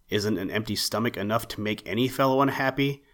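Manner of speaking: quick, short-tempered comeback; curt retort. Acted. Hungry rabbit cutting the owl short, curtly. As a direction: snap it back fast, a bit put out. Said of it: "retorted Peter rather shortly".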